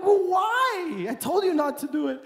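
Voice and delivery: a dad pretending to be cross; light mock telling-off; mock scolding dad. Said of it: "I'm like".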